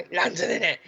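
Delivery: mock London accent. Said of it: "Still London".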